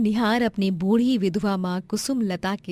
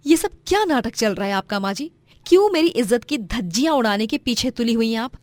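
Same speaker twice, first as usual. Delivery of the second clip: angry daughter-in-law; 3 semitones higher, 5 dB louder than usual. Acted. Roma scolds mother-in-law.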